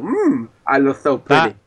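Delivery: lightly voiced wrestler promo, fading out; wrestling promo. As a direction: finish the promo with a vain strut. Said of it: "He is the best at wrestling impressions".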